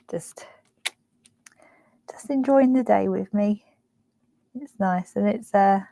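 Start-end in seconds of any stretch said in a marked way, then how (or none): 0.1-3.6 whispering. Real, not acted. Emotional whisper.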